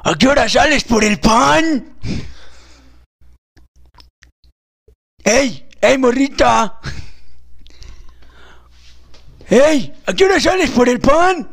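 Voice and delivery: put-on calling out to a girl on the street; leery catcall, drawn out; sleazy old man hollering at a passerby; lecherous old man catcalling. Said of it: "yo voy a ser un viejito alburero".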